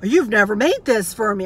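slow, drawn-out mock raving; raving with delight. Dad raves over banana pudding, retold as slow, emphatic delight. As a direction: savour every word, imitating an amazed eater. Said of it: "He went nuts over that".

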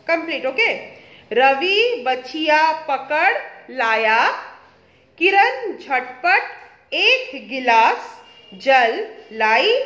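slow, careful, word by word; slow reading aloud. Shown as a demonstration. Teacher reading slowly to a young pupil. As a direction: read each phrase slowly with pauses. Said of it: "मैं पढ़ देती हूँ, आप देखो".

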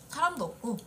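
ordinary talk, nothing marked

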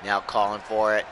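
lively ringside commentary, calling every move; wrestling play-by-play. Acted. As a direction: call the match like a hyped announcer.

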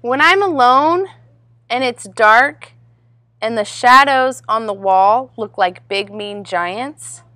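lively, lilting picture-book narration; read-aloud to children. A narrator's reading. Reader tells children about little Rabbit's party, animated storytelling. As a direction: read it out expressively for little listeners.

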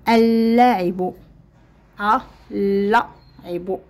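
اللاعب slowly, article merged into one doubled L; drawn-out demonstration of اللاعب; silent lam. Shown as a demonstration. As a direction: break up اللعب slowly to show the merged L. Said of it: "لم ننطق ال".

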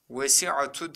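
"Vesiatu" with an added final U; wrong reading. Shown as a demonstration. Teacher quizzes students with a wrong reading. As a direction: add U after the T in "Vesiatu". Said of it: "diye okuduk mu?".

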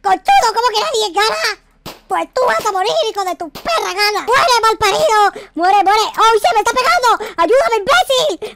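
high, loud furious shouts; furious yelling. Acted. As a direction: scream insults mid-fight. Shootout, yelling at rival.

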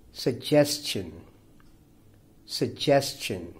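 slow "suggestion", stressed on GES; second-syllable stress. Shown as a demonstration. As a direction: model "suggestion" carefully, weight on the second syllable. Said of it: "stress falls on the second syllable".

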